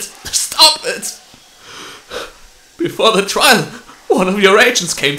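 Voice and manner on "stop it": voiceless gasped plea; breathless plea. Acted. Exhausted witness pleading again, breathless and voiceless. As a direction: gasp it out, barely any voice.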